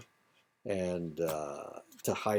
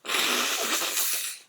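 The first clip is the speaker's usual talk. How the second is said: sneezing. Real, not acted. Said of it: "I have to sneeze".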